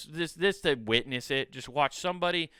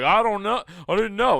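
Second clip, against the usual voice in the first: higher, louder whiny "I didn't know"; mock whiny excuse; 7 semitones higher, 7 dB louder than usual. Careless people excusing themselves, mock whiny. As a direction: play dumb in a whine. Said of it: "All these other pieces of shit, like".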